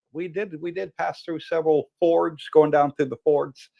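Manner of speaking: talking with no teeth; lisping through a toothless mouth; missing front teeth. Real, not acted. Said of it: "say that with no teeth".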